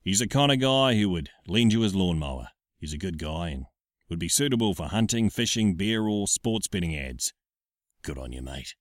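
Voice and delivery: laid-back Australian pub voice; Aussie mate next door, relaxed; Australian bloke read. Shown as a demonstration. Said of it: "the Blakey read, mate".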